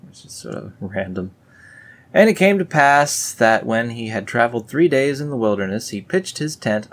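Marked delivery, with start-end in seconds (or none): 2.1-6.9 louder, solemn verse reading; scripture reading. Acted. Reading the tent verse to viewers, solemn. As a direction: proclaim the verse.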